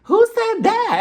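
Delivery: loud, very high mock outburst; pulling a Portia. Guest grabbing her moment at the table, loud high outburst. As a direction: shriek it for dramatic attention. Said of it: "had to pull a Portia".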